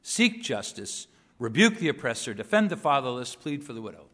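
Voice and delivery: machine-gun list of short commands; punchy staccato scripture reading; staccato delivery. Shown as a demonstration. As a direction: fire off each command as a separate punched phrase. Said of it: "rapid-fire delivery".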